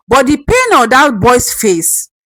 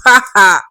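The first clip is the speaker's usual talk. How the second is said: dry laugh; 3 semitones lower than usual. Acted. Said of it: "laughed a dry laugh".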